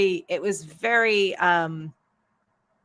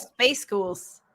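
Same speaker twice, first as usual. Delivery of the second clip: Scottish accent trick. Shown as a demonstration. Author re-showing the trick, mock Scottish accent. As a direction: space ghouls with a long oo, as mock Scottish. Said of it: "a hack to say Spice Girls".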